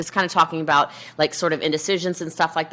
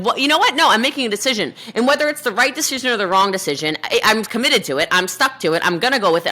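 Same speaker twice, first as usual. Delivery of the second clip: higher, determined quote of a go-getter; decisive; 4 semitones higher than usual. Acted. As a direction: declare it as a firm, committed decision. Acts out a decisive achiever.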